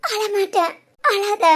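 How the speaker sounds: small tearful reassurance. Acted. Crying woman promises friend she won't cry, tearful. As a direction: promise it through tears. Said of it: "அழாதடி".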